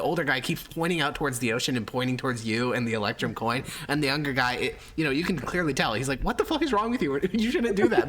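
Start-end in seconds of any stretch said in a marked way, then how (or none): 6.2-8.1 high, heated scolding; angry son. Acted. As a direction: yell at your stubborn father. Son argues with his father.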